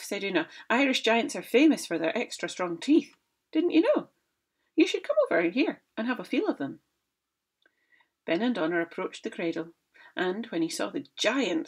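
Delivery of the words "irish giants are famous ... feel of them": high, louder boasting wife; mock-innocent wife bragging; Una's voice. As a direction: brag innocently to scare him. Una voiced in story.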